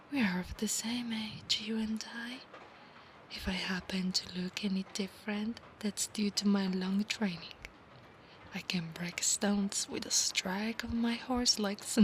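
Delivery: hushed whisper. Acted. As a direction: whisper the promise close to his ear. Whispered roleplay.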